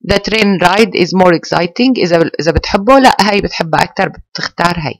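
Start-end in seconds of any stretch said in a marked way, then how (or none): 0.1-1.9 very slow, word by word; slow model sentence. Shown as a demonstration. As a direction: dictate slowly to the class. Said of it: "فأنت بتقول مثلًا". (جملة نموذجية ببطء)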